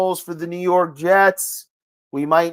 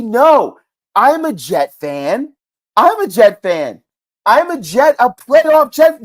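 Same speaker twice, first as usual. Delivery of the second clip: building from a plain reply to a loud, higher, slow proud chant; proud fan boast; 4 semitones higher, 4 dB louder, slower than usual. Pretend. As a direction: puff up as you repeat it and crown it with "playoff Jet". Proud imagined reply about costume.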